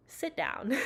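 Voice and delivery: lightly voiced command from a tired body; body talking back. Body telling her to rest, playful mock order. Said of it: "I think my body's like".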